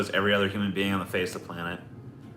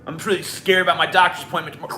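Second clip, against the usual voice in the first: higher, fast, whiny worry; mock fearful whine; 9 semitones higher, 5 dB louder, faster than usual. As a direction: rush it out like a nervous patient. Retold worried complaint.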